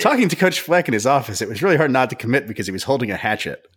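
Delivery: joking spoof of the quote; mock menace. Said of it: "parody of the quote".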